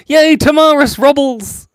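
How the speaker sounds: high, loud, slow cheer; squealed hooray. Real, not acted. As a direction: celebrate the name. Cheering a viewer.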